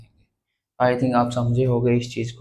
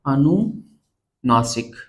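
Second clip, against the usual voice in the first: slow teaching voice; much slower than usual. Shown as a demonstration. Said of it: "इसको हम बोलते हैं".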